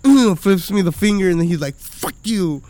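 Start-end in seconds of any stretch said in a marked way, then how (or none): 0.0-0.4 imitated angry kid's "mm"; short, louder, higher mock-angry grunt; mad grunt. Dad imitates his little son getting mad, mock-angry grunt. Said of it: "he gets mad". 1.8-2.6 imitated kid's lisp on "Fuck you". Dad mimics his son cursing at him, lisping. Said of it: "You have a lisp".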